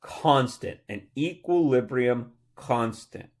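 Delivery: "constant" set apart and stressed; emphasis on CONSTANT. Shown as a demonstration. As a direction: land firmly on the word "constant". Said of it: "Emphasis on the next word".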